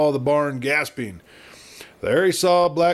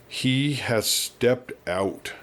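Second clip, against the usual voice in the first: slow, drawn-out echo of the words; much slower than usual. Acted. Old man slowly repeating the doctor's words, dazed. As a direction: let each word hang, stunned. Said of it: "echoed the old man slowly".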